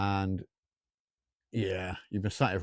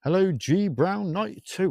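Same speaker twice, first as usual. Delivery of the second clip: sing-song greeting; 9 semitones higher, 4 dB louder than usual. Acted.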